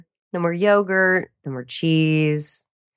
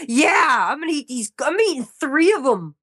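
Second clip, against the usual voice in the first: mock defiant; 7 semitones higher than usual. Defiant cookie eating.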